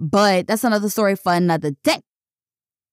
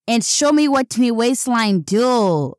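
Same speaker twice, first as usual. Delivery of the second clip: a slow, hammed-up hint of a Caribbean lilt; bad Caribbean accent; slower than usual. Vlogger mocking her own weak Caribbean accent, slow and mild. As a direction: lightly put on Caribbean accent, slowed down. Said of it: "that was probably the worst accent".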